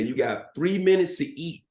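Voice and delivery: mock military command; instructor's order. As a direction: lay down the order, drawn out. Imitating instructors giving recruits orders.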